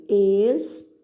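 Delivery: "Extremo" broken into ex, tre, mo; separando sílabas. Shown as a demonstration. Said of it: "separe as sílabas dessas palavras". ("Extremo" sílaba por sílaba, com pausas)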